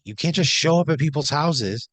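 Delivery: indignant complaint. Acted. Player venting after intruders vanish, loud and indignant. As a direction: scold the absent intruders in mild outrage.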